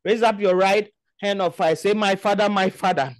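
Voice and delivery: forceful, chanting prayer leader; preacher praying with insistent force; fervent prayer. Real, not acted. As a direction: lead the congregation in urgent, repeated petitions. Leads congregation in forceful prayer.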